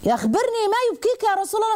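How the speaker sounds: high, eager questioning voice of a bold companion; عمر بن الخطاب voiced. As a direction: ask it high and urgent, as the fiery companion. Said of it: "انتوا عارفين سيدنا عمر بقى". (صوت عالٍ متلهف بنبرة عمر)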